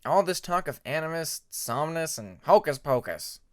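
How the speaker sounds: grumbling friend, loud by the end; exasperated complaint. A narrator's reading. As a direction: scoff at all the magic talk. Cliff complaining.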